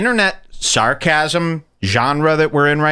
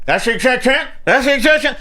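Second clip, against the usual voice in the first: higher, slowed mock smugness around a cigar; smug cigar imitation; 10 semitones higher, faster than usual. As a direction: ham up a smug man puffing a cigar. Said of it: "Crowder just put the cigar".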